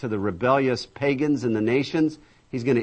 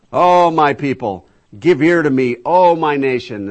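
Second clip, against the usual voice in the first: scripture proclamation; 3 semitones higher, 8 dB louder than usual. Acted. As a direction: proclaim it as God calling his people. Reads scripture as God speaking.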